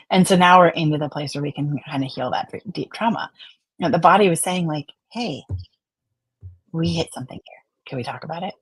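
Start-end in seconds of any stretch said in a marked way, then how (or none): 5.1-8.5 quiet, hushed invitation; soft gentle voice. Pretend. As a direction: ease it out softly.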